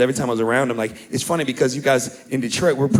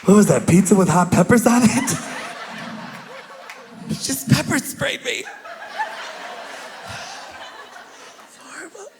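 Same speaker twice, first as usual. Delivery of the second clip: put-on crying kid; 11 semitones higher than usual.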